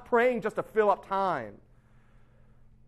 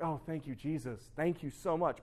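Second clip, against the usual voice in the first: soft, lower thankful prayer; hushed gratitude; 4 semitones lower, 8 dB quieter than usual. Retold or imitated. Woman gives thanks after a healing, quietly grateful. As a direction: imitate relieved thanks, quietly.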